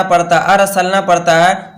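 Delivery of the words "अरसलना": अरसलना with a light, thin R; wrong thin R. Shown as a demonstration. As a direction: read अरसलना with a plain "ar", no heaviness on the R. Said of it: "तो ये wrong हो जाएगा". (अरसलना, रा को बारीक करके)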